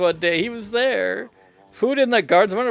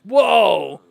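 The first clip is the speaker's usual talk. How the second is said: sudden shout; 4 dB louder than usual. Acted. Stopping the storyteller mid-tale.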